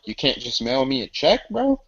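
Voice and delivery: bro jumps way up high; teasing the scammer with a high bro; mock question. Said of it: "I was like".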